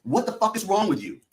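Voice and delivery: half-voiced yell of disbelief; retold scream. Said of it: "screaming at somebody".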